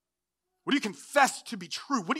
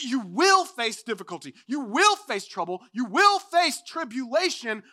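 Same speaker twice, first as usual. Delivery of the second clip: "will" punched each time; stress on WILL; 4 dB louder than usual. Real, not acted. Preacher warning of certain trouble, stressing "will". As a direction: lean hard on "will" in every phrase. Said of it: "not you might".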